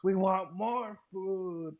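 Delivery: high, slow pompous pundit voice; mocking Caleb. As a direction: ham up a smug commentator, slowly. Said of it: "then Caleb's like".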